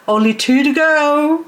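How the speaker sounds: lilting high announcement; high sing-song. Real, not acted. Announces how many plants remain.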